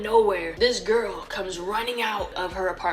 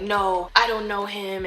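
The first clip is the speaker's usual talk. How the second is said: mock innocent denial; 4 dB louder, slower than usual. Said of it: "her demeanor switch up".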